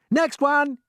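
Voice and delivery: high, loud call; shouted. Acted. James calling his crew, loud high shout. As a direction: call out the next round. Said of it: "he shouted".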